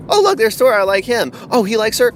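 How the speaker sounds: high, loud fan gushing; mock gullible delight. Pretend fan spotting Thor in the trailer, mock delight. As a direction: gush like an easily swayed fan. Mimics gullible fans won over.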